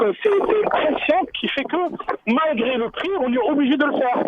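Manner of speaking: while running. Real, not acted. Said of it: "je suis en train de courir".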